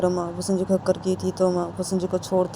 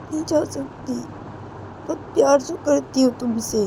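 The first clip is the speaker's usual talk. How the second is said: higher-pitched, affectionate promise; tender reassurance; 5 semitones higher than usual. Acted. Uma promising Sanju she cannot leave him, tender. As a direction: settle from insistence into gentle declarations of love.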